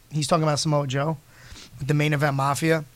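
ordinary talk

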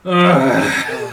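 loud, bursting laugh; a sudden loud laugh breaking out; loud burst of laughter. Real, not acted. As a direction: crack up loudly at the mishap. Character collapses in the game.

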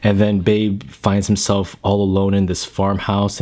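ordinary delivery

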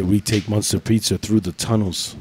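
1 mock narco boast. Host quoting narco voice.

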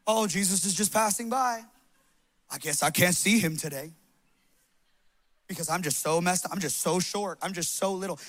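low, soft, sorry-for-myself excuse; mock self-pity. Preacher voicing Zacchaeus-style excuses to the congregation, mock self-pity. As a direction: play a meek, defeated excuse-maker.

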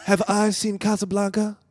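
exasperated echo of the question; lightly voiced Seagal; playing Seagal. Seagal echoing Keenen's question, mildly exasperated. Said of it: "I'll be Steven Seagal".

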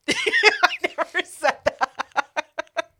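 never drawn out, slow and rising; playful denial stretching never; stress on never. Real, not acted. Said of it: "Not once did I say".

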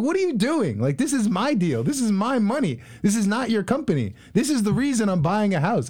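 high-pitched exasperated outburst at the workers; indignant protest, voice jumping high; retold flip-out. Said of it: "So I just flipped out".

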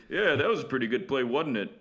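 lightly voiced Schroeder, wasn't said as "wadn't"; a hint of the Brewers announcer; Schroeder impression. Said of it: "He's like".

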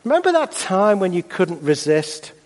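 mild jeering tempter's voice; mocking voice. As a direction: taunt them a little with an old failure. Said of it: "There'll be the mocking voice".

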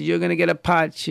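loud mock scolding; retold yelling. Father threatening his five-year-old child, mildly acted yelling.

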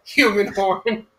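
slow, odd put-on voice; slow alien ruler voice. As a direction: drag it out like a pompous alien. Quoting Lrrr episode line.

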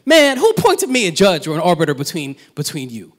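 a touch of indignant rebuke; imagined Jesus' delivery. Shown as a demonstration. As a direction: say it as Jesus pushing back. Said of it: "the way he says".

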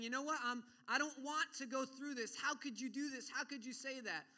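mildly heated, acted accusation; angry protest. Preacher acts someone cursing God, mildly angry protest. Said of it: "of cursing God, of saying".

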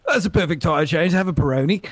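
put-on light posh British accent on a tire-change line; mock British accent. Mocking F1 Italians in a British accent. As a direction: clip it like a British pit crew, only lightly. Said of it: "perfect British accent".

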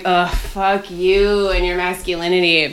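slow, lightly acted scornful retort; mock disgust. Woman answers guys who insist on driving, mock disgust. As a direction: drag it out with put-on disgust. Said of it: "I'm like".

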